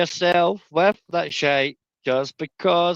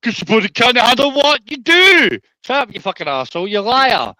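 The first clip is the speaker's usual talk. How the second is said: shouting; 3 semitones higher, 4 dB louder than usual. Real, not acted. Heated argument, shouting over him.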